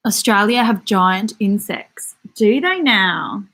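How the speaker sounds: slow, drawn-out Australian accent. Shown as a demonstration. Streamer answering a comment about giant insects, Australian accent. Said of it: "I love doing the Australian accent".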